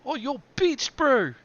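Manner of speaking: high, loud Kiwi voice; broad kiwi accent. Pretend. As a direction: ham up a New Zealand bloke. Kiwi slang banter.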